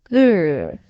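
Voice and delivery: a little pretend dinosaur growl; lightly voiced toddler growl; mild growl. A narrator's reading. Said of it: "said George".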